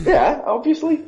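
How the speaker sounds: high amused yeah obviously; laughing along with the host's joke; laughing agreement. Real, not acted. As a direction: laugh it out slowly.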